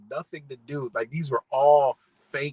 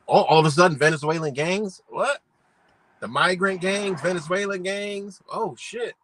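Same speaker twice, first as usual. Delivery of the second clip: mock surprise; 4 semitones higher, 3 dB louder than usual. Acting out viewers' startled discovery.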